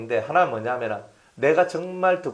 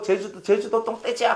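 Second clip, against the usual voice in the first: mock taunting; 5 semitones higher than usual. Acts someone teasing him.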